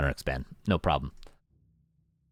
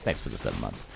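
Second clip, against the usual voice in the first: put-on lower, jokey Boston accent thanks; 12 semitones lower, 7 dB quieter than usual. Caster re-thanks Nick New York in a mock Boston accent. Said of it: "As I say that with a Boston accent".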